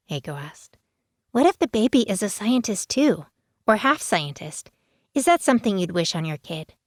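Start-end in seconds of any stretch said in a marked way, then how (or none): 1.3-6.7 put-on high mischievous girl voice; teasing teen. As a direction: needle her friend, grinning.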